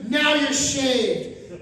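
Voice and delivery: very slow, final pronouncement; a mock-stern nurse closing the matter; curt nurse. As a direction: spell it out, drawn out and done with him. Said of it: "She goes".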